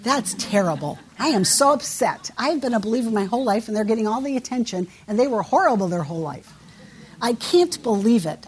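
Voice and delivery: a lightly voiced whiny complainer, quick and huffy; mock self-pitying rant, rushing the middle lines; grumbling churchgoer. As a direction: act out a resentful long-time believer griping. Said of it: "They don't say".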